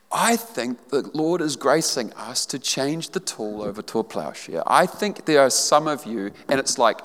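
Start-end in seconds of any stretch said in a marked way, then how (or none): 0.1-4.6 moved. Real, not acted. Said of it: "I'm getting a little emotional here".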